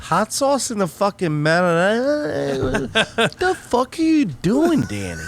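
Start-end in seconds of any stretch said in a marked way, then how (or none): 2.8-5.2 imitating angry dad. Friend repeats dad's line higher, hammed-up mock yell. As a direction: push the mock outrage up higher.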